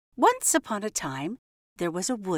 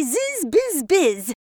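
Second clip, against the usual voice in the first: bee; 8 semitones higher, 5 dB louder, slower than usual. Retold or imitated. Mouse mimics bee's buzzing.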